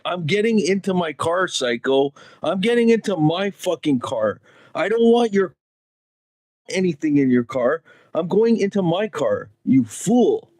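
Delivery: mildly hammed-up telling-off; mock indignation. Man telling off a driver locking up, mock indignant. Imagined retort to nervous driver.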